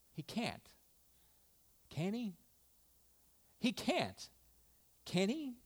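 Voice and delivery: acted quiet wrestling between doubt and hope; wavering inner doubt. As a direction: argue softly with yourself. Voices widow wrestling with doubt.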